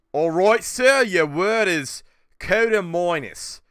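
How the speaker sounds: slow, fancy announcer reading out the word; hammed-up spelling bee host, drawn out slow; posh announcer voice. Announcer giving a word at a spelling bee, in a slow put-on voice. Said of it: "But if he said".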